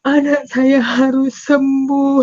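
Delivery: slow, insistent tearful plea; desperate plea. Retold or imitated. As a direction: insist through tears. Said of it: "kata saya". (ibu bersikeras anaknya harus sembuh, menangis)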